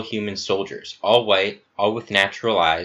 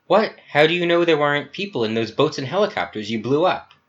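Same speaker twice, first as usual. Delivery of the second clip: high, incredulous challenge; appalled questioning; shocked objection; 7 semitones higher, 4 dB louder than usual. Acted. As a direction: object in disbelief, pitch raised. Gamma confronts Epsilon over the victims.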